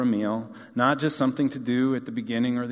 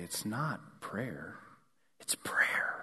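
drawn-out, slow, very soft, hushed whisper; 3 semitones lower, 12 dB quieter than usual. Retelling a board member's favorite line about prayer: imitating Aura's whisper. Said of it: "she would kinda whisper it".

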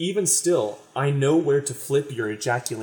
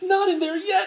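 put-on very high, squeaky anime girl voice. Describing an anime scene, the speaker imitates what the girl says: anime girl impression. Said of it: "That that was my best impression".

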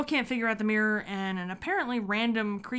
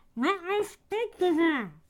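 muffled put-on villain voice, higher; 9 semitones higher than usual. Acting out a scene from the movie: muffled Voldemort voice. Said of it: "Voldemort's voice had been muffled before the turban was removed".

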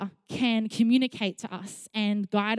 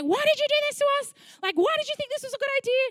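mock very high, frantic, panicked screaming. Recounting being stuck far from shore and screaming at their cousin, retelling a panicked scream. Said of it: "I'm screaming at my cousin".

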